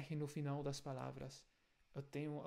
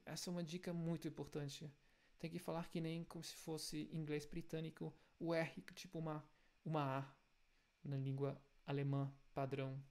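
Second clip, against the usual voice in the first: ordinary talk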